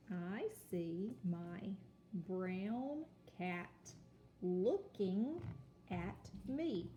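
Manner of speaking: very slow word-by-word line; slow read-aloud. Shown as a demonstration. Teacher reading the story line slowly to children. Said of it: "Let's read the Next line".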